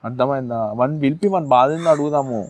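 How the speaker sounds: soft, soothing promise to a crying partner; calm her down tenderly; softly consoling his girlfriend so she stops crying; gentle reassurance. Acted.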